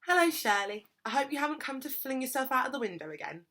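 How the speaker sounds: bright, loud cheery greeting. A narrator's reading. Smiley woman teasing Shirley about the window, cheery. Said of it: "she said cheerily".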